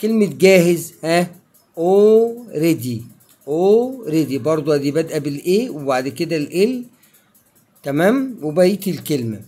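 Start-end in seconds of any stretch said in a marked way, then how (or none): 1.8-4.4 already with a long O and no L; "already" said slowly, silent L; L left silent. Shown as a demonstration. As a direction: draw out the opening O in already. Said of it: "ال A هتنطق O وال L مش هتنطق".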